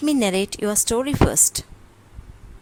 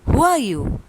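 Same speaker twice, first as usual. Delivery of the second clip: echoed yell; 3 semitones higher, 6 dB louder than usual. A narrator's reading. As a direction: answer like the mountain's echo. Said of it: "He receives the answer".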